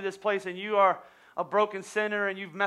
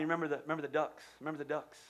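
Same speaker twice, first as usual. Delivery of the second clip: lightly hushed, quick reminder; mock whisper; 4 semitones lower, 7 dB quieter, faster than usual. Sister threatening her brother at the dinner table, hushed reminder. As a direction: lean in and hiss it softly. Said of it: "she whispers to Johnny".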